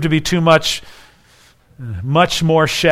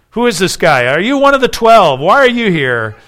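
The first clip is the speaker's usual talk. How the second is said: lightly acted, insistent interrogation; suspicious questioning; 4 semitones higher, 4 dB louder than usual. Onlookers noticing Peter by the fire, mildly acted suspicion. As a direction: fire questions with swooping emphasis.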